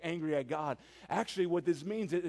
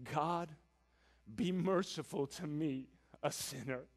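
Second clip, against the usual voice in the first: softer, hushed plea for mercy; distraught plea; 5 semitones lower, 8 dB quieter than usual. Retold or imitated. The tax collector at a distance asks God for mercy, hushed. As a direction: beg quietly, ashamed. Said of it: "he was very distraught".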